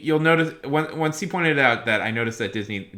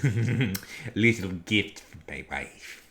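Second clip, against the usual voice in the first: slow, drawn-out put-on voice; impersonation voice; slower than usual. Shown as a demonstration. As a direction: draw out each word like an old star. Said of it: "I'm doing an impersonation".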